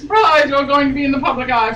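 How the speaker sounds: high, loud, sing-song surprise; mock cheer. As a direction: announce it like a party popper. Mock announcement in reading.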